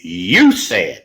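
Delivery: YOU said slow and pointed; stress on you. Shown as a demonstration. Telling his co-host who says it, you stressed slowly. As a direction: lean on the word you, slowly. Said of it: "We don't ever say it".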